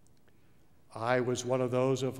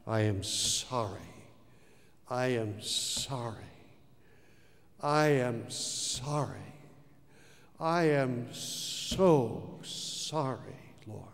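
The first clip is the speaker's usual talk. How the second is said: remorseful prayer; slower than usual. Retold or imitated. Man on his knees telling God he is sorry, contrite. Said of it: "And I said".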